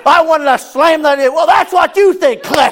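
laughing high and loud through the words; can't hold back a laugh while retelling. Retold or imitated.

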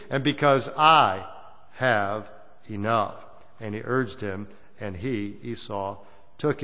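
measured, solemn reading of the Bible; scripture reading. Acted. Preacher reading Jacob's words to the church, solemn reading. Reads Genesis aloud to congregation.

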